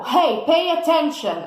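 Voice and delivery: mock yelling at a student, not truly loud; demonstrated yell. Shown as a demonstration. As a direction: call out as a teacher demanding attention. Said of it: "I am talking very loudly".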